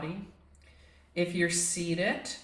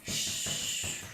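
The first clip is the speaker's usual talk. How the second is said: shushing release; 5 dB quieter than usual. Shown as a demonstration. Shaking out during the tantrum.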